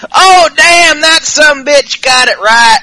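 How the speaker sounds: high laughing mock shout. Host voicing Styles laughing at Ellsworth's beating, laughing shout. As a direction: cackle out the words, slowing. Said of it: "Styles is like".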